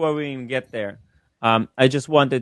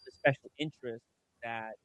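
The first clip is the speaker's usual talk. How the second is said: choppy breaking audio; voice cutting out. Real, not acted. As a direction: signal dropping in and out. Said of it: "Is Tim's voice cutting in and out".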